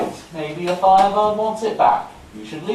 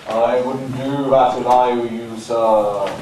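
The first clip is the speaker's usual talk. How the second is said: ominous warning; 3 semitones lower, slower than usual. Acted. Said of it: "the ominous tone".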